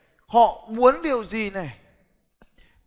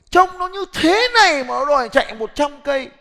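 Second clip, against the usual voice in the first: teasing exclaim; 5 semitones higher, 6 dB louder than usual. Real, not acted. Teasing a runner on stage.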